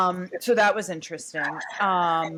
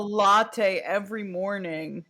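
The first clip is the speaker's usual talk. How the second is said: mock almost-crying; 3 semitones higher, 3 dB louder than usual. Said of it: "the almost cry".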